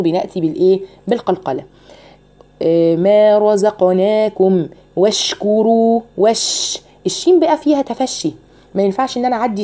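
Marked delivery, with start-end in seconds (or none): 3.0-6.0 slow رزقناكم with a bounced ق; qalqala demo. Shown as a demonstration. Teacher shows qalqala mid-word. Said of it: "زي كده رزقناكم".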